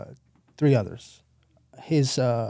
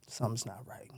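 muttered to himself; 15 dB quieter than usual. Retold or imitated. Uneasy thought in the car.

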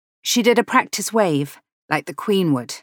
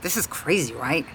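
put-on softer American-accented aside; casual remark in an American accent; lightly voiced American stranger; 3 semitones lower, 6 dB quieter than usual. A narrator's reading. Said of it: "She spoke in an American accent".

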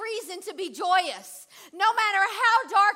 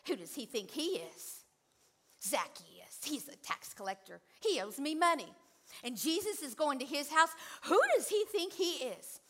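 grumbling crowd; 2 semitones lower, 6 dB quieter than usual. Retold or imitated. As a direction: sound like a resentful neighbour. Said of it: "Can you imagine what they said?".

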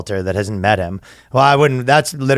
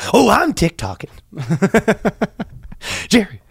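higher, lightly voiced whiny influencer; quirky alter voice; 6 semitones higher than usual. Comedian voicing Cosmo whining about TikTok, lightly hammed-up. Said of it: "Cosmo could be causing some problems".

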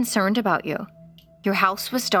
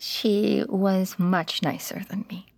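slow whispered grief; a slow, whispered sad smile; tearful whisper; 3 semitones lower, slower than usual. Acted. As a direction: let it barely come out. Grieving mother answering child.

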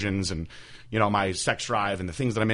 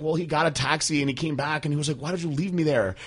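imitating mom; 6 semitones higher than usual. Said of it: "And she was like".

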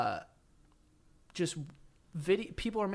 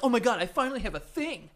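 higher-pitched imitation of gushing; mock excitement; 6 semitones higher than usual. Person finally has a thing to share, mildly mock-excited. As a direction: lightly mimic someone getting excited. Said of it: "they just get so excited".

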